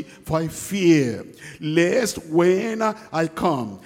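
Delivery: slow, measured Bible reading; scripture reading. Acted. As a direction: read the verses slowly and solemnly. Reads scripture slowly.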